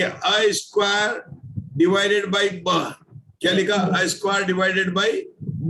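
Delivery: very slow, word by word; slow dictation. Shown as a demonstration. Teacher dictating the formula to students, slow and deliberate. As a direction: spell out each term slowly for the class to write.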